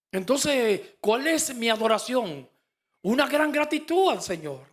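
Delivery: fervent preaching. Real, not acted. Preacher building to climax.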